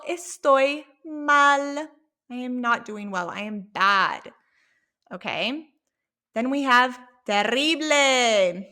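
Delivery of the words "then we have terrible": terrible with a rolled Spanish R. Shown as a demonstration. Teacher modelling a rolled R for students. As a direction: roll the R in "terrible" hard. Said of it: "Notice how I roll my R".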